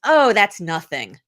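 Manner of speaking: slow, dismissive "Oh, that's nothing" with a falling "Oh"; brushing off a compliment. Retold or imitated. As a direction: wave the praise away, drawn out and modest. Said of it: "the first thing you would say is".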